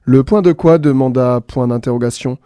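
bright storyteller reading with voiced punctuation marks; lively story reading. A narrator's reading. A radio host reads the punctuation story aloud, lively. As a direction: read the tale playfully to listeners.

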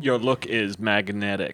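slow, soft, lightly voiced Warhol drawl with a laugh; a hint of a spaced-out art star, said slowly; Andy Warhol impression. Podcast host imitating Andy Warhol for his co-host, slow and soft. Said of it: "That's my Andy Warhol impression".

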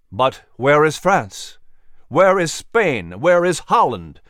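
rally the doubting men, demanding; urgent questions. Acted. Patrick to the doubting gentlemen, urgent and forceful. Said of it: "he asked them urgently".

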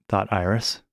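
ordinary delivery

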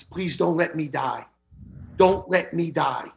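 slow, soft plea to the nurse; a frightened patient quietly begging for his life; quiet pleading. Retold or imitated. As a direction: beg her slowly and softly not to let you die. Begging nurse, holding her hand.

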